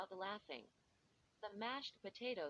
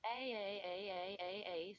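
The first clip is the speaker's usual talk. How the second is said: mock dying cry. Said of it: "pretended to stab myself".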